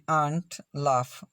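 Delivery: "आंट, लाफ" drawn out slowly with a long आ. Shown as a demonstration. Teacher showing learners the AU sound, slow long आ in "आंट, लाफ". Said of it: "एयू का उच्चारण आ".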